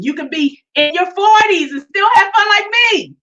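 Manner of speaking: a lightly voiced, bubbly Kiki; Kiki character voice. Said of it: "Oh, that was Kiki. ... one of my characters".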